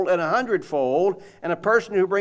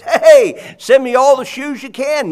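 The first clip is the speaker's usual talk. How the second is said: high, loud, thrilled phone call; excited salesman; 6 semitones higher, 9 dB louder than usual. Retold or imitated. Optimist salesman phoning home about a new market, excited and loud. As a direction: shout the good news down the line.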